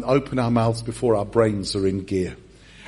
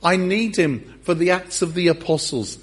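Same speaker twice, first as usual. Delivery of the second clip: raised, high rescue call; mock urgent shout; 5 semitones higher, 3 dB louder than usual. Jesus to disciples in the boat, mock urgent shouting. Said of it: "he shouts to the disciples in the boat".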